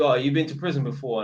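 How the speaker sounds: mild gruff-man quote; a hint of a blunt bloke asking; imitating a male tenant. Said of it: "a couple of men have asked me".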